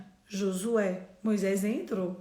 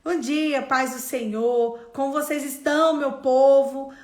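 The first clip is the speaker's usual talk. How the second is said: loud, higher, beaming morning greeting to the gym; cheerful loud greeting; 4 semitones higher, 10 dB louder, slower than usual. Retold or imitated. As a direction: call out your good morning to the whole room. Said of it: "eu chego na academia e eu falo". (saudação animada e bem alta)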